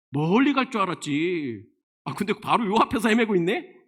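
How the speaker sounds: acted sneer at a failed escape; mocking taunt. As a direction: taunt someone who has got lost. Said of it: "원어로 보면 조롱하고 있는 거예요".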